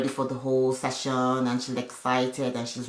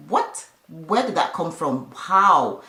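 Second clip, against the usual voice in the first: mock disbelief; 3 semitones higher, 3 dB louder, slower than usual. Retelling a woman's reaction to shocking gossip, surprised. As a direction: imitate someone taken aback by gossip.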